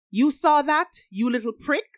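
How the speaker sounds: high, loud mock outrage; indignant. A narrator's reading. Friend caught with the letters, scolding her teaser indignantly.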